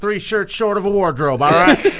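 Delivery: lightly voiced folksy judge; J R impression. Mock divorce court judge addressing sir, folksy impression. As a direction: rule on it with homespun authority. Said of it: "us doing J R impressions".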